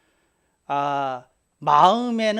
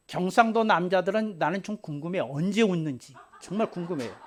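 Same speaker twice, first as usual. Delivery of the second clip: ordinary talk, nothing marked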